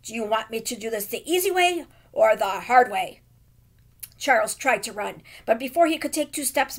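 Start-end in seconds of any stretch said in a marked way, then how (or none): 0.0-3.2 lightly voiced tough guy, a bit louder. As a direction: play it like a movie heavy making a threat. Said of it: "in his best tough guy voice".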